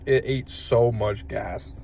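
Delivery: raspy after coughing; rough, hoarse smoker's voice; smoker's rasp. Real, not acted. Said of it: "I sound like a chain smoker".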